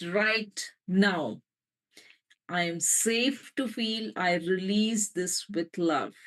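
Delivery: slow, tender affirmation; gentle affirmation. Shown as a demonstration. Healer modelling an affirmation for listeners, slow and gentle. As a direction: savour each line of the vow. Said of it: "And just gently say, or loudly if you can".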